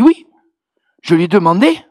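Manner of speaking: put-on Ivorian accent. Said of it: "avec son bel accent ivoirien".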